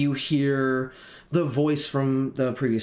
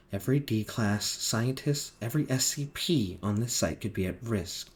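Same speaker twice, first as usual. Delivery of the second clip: monotone voice. Acted. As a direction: keep every line level and cold. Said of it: "the monotone voice says".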